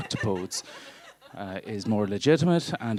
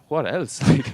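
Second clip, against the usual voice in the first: higher, louder mock-insistent echo; pushy repeat; 6 semitones higher, 7 dB louder than usual. Nosy stranger pressing him for more, mock insistent. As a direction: push the question back like a nosy stranger. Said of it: "And they're".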